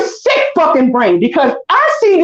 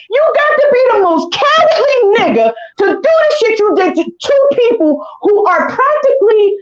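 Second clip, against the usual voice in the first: higher, strained yell with a sob in it; raging call-out on the verge of tears; furious shout; 5 semitones higher than usual. Real, not acted. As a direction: yell it at him, voice cracking.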